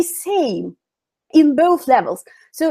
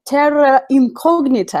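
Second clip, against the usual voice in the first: Russian accent. Shown as a demonstration. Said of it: "I will say it, like, with my Russian accent".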